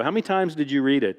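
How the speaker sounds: teasing question with a laugh in it. Retold or imitated. Author teasing the fan on tour, laughing. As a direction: tease her, laughing. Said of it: "I go".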